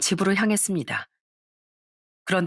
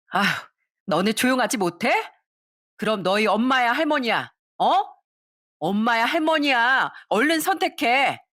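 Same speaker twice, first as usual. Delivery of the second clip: raised, demanding snap; irritated mother; 5 semitones higher than usual. Acted. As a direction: force the kids to choose. Mother snapping at kids. (아이들에게 짜증 내는 엄마)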